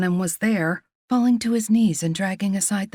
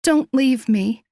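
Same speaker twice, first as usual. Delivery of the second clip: slow, louder, desperate plea; pleading; 5 semitones higher, 5 dB louder, slower than usual. Acted. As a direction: beg him not to go. Wounded woman clutching his hand.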